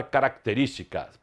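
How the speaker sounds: característica with just a touch of K before the T; everyday característica, the C passed over lightly; barely sounded C. Shown as a demonstration. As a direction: say característica quickly, only a tiny bit of C. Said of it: "bem pouquinho do C".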